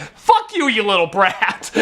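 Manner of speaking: high-pitched outraged yell, half in jest; pissed off. Retold or imitated. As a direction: curse out the kid in a comic, squeaky fury. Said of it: "I get so pissed off".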